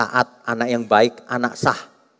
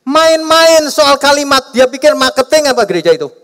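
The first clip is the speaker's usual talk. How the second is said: indignant rebuke; 12 semitones higher, 6 dB louder than usual. Real, not acted. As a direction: scold them for toying with words.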